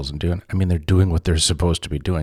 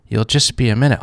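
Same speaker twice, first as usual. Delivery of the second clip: "minute" pushed higher and louder into a disbelieving rise; incredulous echo; 7 semitones higher, 6 dB louder than usual. Retold or imitated. Echoing the shopper's words back, higher and incredulous. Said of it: "And I was mad".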